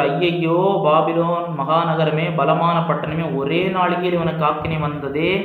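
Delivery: drawn-out cry of woe, only lightly acted; mild mock lament. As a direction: read it as a mourner's wail, understated. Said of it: "அவளுக்காக அழுது புலம்பி". (லேசாக நடித்த புலம்பல்)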